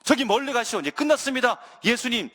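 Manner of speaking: worked-up, dismissive refusal; angry disciples. Acted. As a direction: act out disciples angrily turning the crowd back. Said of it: "화를 내는 거예요".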